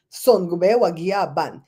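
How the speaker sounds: "Son Gube Wagia Ban" said slowly, each word apart; Garifuna phrase. Shown as a demonstration. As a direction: carefully sound out the Garifuna sentence, slowly. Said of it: "I know one sentence in Garifuna".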